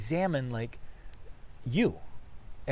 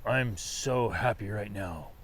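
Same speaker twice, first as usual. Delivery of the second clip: mock joyless happy; 4 semitones lower, 3 dB quieter than usual. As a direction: say you're thrilled with no energy at all. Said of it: "you don't look or sound very happy".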